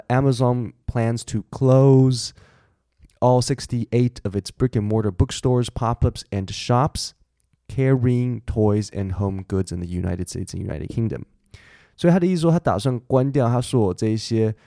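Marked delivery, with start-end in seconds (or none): 0.1-11.2 unhurried, clearly spaced news read; careful second read-through; slow re-reading. Shown as a demonstration. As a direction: read the passage again slowly for learners. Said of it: "所以我再念一次这段给你".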